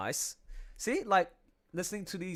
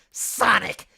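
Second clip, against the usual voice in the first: cocky rival, loud and higher; Jet the Hawk; 7 semitones higher, 11 dB louder than usual. Acted. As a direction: taunt Sonic with a sneer. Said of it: "my Jet the Hawk voice".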